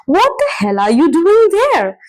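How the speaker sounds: mock outrage with a punch on "hell"; strong emotive question. Shown as a demonstration. Teacher demonstrating an informal intensifier, emotive exclaimed question. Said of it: "expressing strong emotions".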